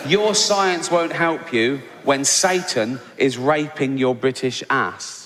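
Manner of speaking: slow, heavy, emphatic reading of a capitals tweet; mock shouted tweet. Comic quoting a Texan's all-caps tweet, slow mock menace. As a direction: read it like a ranting all-caps threat. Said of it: "remember it's all in capitals".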